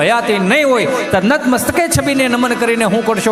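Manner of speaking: rhythmic, sustained stage recitation; declaimed verse. Acted. Reciting to audience about living parents, rhythmic declaimed verse. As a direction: build it into a heartfelt declamation.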